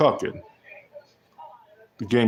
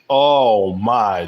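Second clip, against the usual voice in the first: surprised exclamation; 5 dB louder than usual. Real, not acted. Exclaiming at own game winner.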